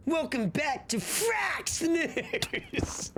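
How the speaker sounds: high, slow mock anchor voice; hammed-up TV news intro; news anchor impression. Quoting a South Park news bit, hammed-up anchor voice. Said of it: "where they're like".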